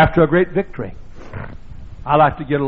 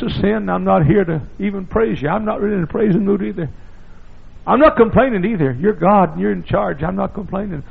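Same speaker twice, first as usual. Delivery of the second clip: quiet prayer; 5 semitones higher than usual. Retold or imitated. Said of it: "I just sat out there and I said".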